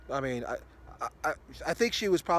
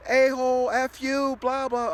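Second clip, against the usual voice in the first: high, loud mock rant again; imitating her screaming; 8 semitones higher, 4 dB louder than usual. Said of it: "she keeps doing the same thing".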